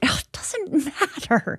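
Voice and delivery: whispered with a small laugh. Retold or imitated. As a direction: breathe it out as a light whisper, laughing softly. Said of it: "I try to tell them it".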